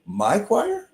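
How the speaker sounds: high, rising disbelief on choir; incredulous. Retold or imitated. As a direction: repeat it in disbelief. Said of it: "you know, whatever".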